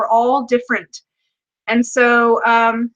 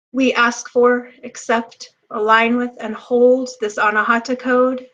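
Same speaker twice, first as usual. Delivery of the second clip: guided meditation. Acted. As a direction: lead the group gently into the moment. Leads a heart-chakra activation.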